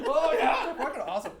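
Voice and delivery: high, loud mock Irish-Canadian lilt; Irish Canadian accent. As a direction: echo it as a hammed-up Irish-Canadian officer. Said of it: "Irish Canadian".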